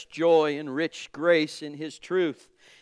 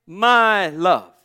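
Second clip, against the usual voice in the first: mild emphatic quote; 3 semitones higher, 7 dB louder, slower than usual. Acted. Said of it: "he says so sweetly, so specifically".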